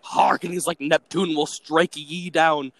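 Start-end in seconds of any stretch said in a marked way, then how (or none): 0.0-0.4 loud, higher sailor cry; deckhand shouting over engine. Retold or imitated. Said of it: "I'm just yelling this". 0.8-2.7 slow booming sailor curse; deckhand shouting over engine. Retold or imitated. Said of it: "I'm just yelling this".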